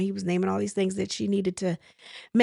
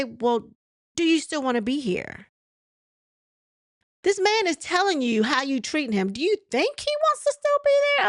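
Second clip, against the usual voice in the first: higher, rising in disbelief; mock her question with outrage; indignant mock; 7 semitones higher than usual. Recapper mocking Trisha's nerve, outraged high voice. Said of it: "she had the nerve to say".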